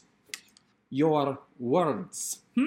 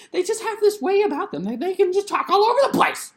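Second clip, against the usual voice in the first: lively relational talk; 14 semitones higher, 3 dB louder than usual. Shown as a demonstration. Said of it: "talk a little bit more nasally".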